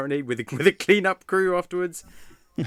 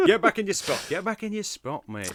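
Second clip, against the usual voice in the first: put-on Sheffield accent; 5 dB louder than usual. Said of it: "yeah, Sheffield, mate".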